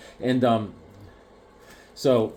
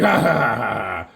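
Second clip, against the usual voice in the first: mock gloating laugh; 4 semitones lower than usual. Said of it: "He's like".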